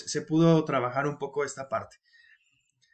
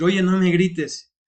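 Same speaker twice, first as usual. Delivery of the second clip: louder, higher and slow, mock-offended; annoyed complaint; 4 semitones higher, 6 dB louder, slower than usual. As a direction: protest slowly, as if being shouted at. Imagined reply to a deep-voiced colleague. (queja molesta, más fuerte y lenta)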